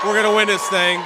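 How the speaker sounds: loud, rousing rally cry; big closing shout to supporters. Real, not acted. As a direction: fire up the crowd with a shout.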